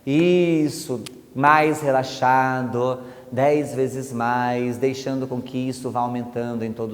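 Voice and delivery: drawn out and slow, calming the subject; slow hypnotic induction. Shown as a demonstration. Hypnotist deepening a subject's relaxation, slow and drawn out. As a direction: stretch each word to deepen trance. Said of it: "começo a mudar também a entonação".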